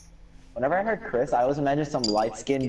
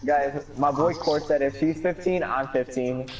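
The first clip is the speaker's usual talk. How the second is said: slower retelling; slower than usual. Real, not acted. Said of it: "hey, guys".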